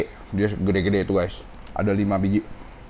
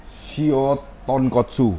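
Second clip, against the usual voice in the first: very slow, higher-pitched "Shio Tonkotsu"; slow read-out; 4 semitones higher, much slower than usual. Real, not acted. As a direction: stretch out "Shio", then "Tonkotsu". Reads dish name out slowly.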